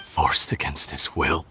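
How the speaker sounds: low, slow sneering repeat; scornful echo. Acted. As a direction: throw the words back with contempt. Mocking the victim claim.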